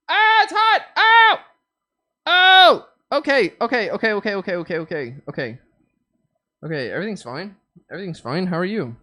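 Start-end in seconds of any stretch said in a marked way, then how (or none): 0.1-5.6 high yelping in pain; loud pained cries; burnt fingertips. Real, not acted. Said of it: "I burned the shit out of myself".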